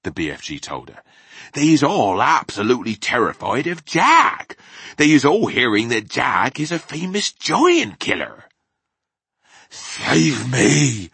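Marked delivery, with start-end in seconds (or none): 1.5-8.5 emphatic giant, a little higher and louder; lightly voiced giant, impressing the danger; BFG, earnest giant. A narrator's reading. 9.7-11.1 high, loud cry for rescue; desperate, raised cry; scream for help. A narrator's reading. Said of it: "screamed the flesh lump eater".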